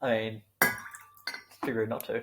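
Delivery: slow, rough, aggressive. Acted. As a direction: drag it out rudely like a threat. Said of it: "That sounded aggressive".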